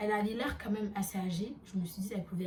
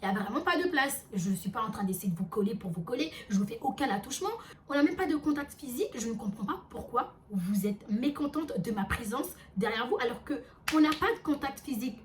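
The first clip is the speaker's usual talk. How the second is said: insistent protest, mildly raised; retold slightly raised voice; 2 semitones higher than usual. Narrator defends herself to the woman, voice a little raised. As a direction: re-enact a firm, emphatic self-defence. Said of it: "Je commence un peu aussi à lever la voix".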